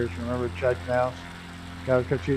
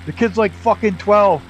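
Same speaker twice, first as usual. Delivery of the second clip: higher, slow, exasperated complaint; imitating exasperated Jimmy; 5 semitones higher, 3 dB louder, slower than usual. Jimmy complains he can't slap a twelve-year-old, slow and exasperated. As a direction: drag it out in disbelief. Dejected driver explains, retold.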